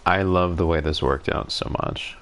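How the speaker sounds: congested, stuffy-nosed voice; blocked nose. Real, not acted. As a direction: talk through a blocked nose. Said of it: "Sorry, I'm very congested".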